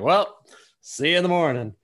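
cheery high cartoon sponge; bright, bouncy cartoon sponge voice; SpongeBob voice. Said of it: "SpongeBob's the one that's just like".

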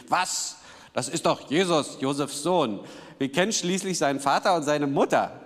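mildly indignant crowd protest. Acted. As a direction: act out a touch of outraged disbelief. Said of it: "riefen sie empört". (leicht empört)

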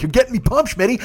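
high-pitched, pumped-up friend; retold yelling. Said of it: "we start just fucking yelling".

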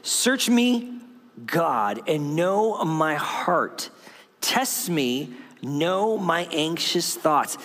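slow, deliberate reading of a psalm; scripture reading. Shown as a demonstration. Pastor reading the psalm aloud to the congregation, slow and prayerful. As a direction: read the verse slowly, as a prayer. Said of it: "It says in Psalm one thirty-nine".

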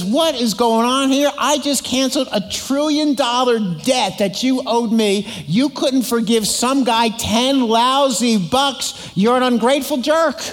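angry king. Acted. King scolding the ungrateful servant, angry. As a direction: drag out the disbelief, then land on jerk. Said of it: "In anger".

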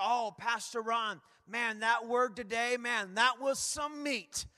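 slow, drawn-out praise, lightly hammed up; mock admiring churchgoer. Churchgoers praising the pastor over lunch, mock admiration. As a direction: imitate a churchgoer savoring the sermon.

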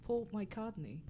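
"McCartney" as "my-COD-nee"; attempted British pronunciation. Shown as a demonstration. Learner repeats for puzzled friends, "McCartney" as "my-codney". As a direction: say "McCartney" without R, softly as "my codney". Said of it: "pronounce it in the British way".

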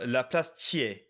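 THIERS said "tee-AY", no final r; correct pronunciation. Shown as a demonstration. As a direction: end THIERS on an open "ay", the R silent. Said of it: "It's pronounced Thiers".

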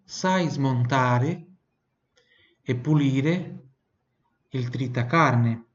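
very slow, chunked Italian; slow, word by word. Shown as a demonstration. Teacher breaks the sentence into slow chunks for the student. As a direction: break it into pieces, slowly.

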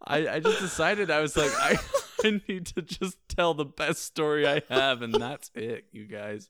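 loud, high, breaking into laughter; real giggly outburst; laughing self-defence. Real, not acted. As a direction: justify yourself loudly through laughs. Laughingly justifies telling the story.

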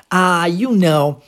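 slow, drawled "ah, you know"; casual you know. Shown as a demonstration. Teacher imitating a speaker's casual you know. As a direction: drag out "ah, you know" like a relaxed native speaker. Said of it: "quando ela usa também essa".

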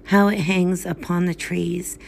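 measured, solemn reading of verse; poem recitation. Acted. Reader reciting Poe to listeners, solemn poem voice. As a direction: read it like a graveside elegy.

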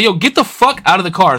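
insist, as if squaring up to a driver; retold angry order.

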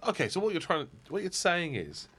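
high, imitated bafflement; mock incredulity. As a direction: spell it out in high-pitched disbelief. Quoted bit, incredulous passenger repeating.

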